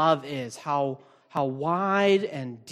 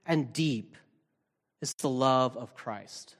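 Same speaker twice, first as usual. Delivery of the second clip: 1 scripture reading. Acted. Pastor reads verse eighteen aloud.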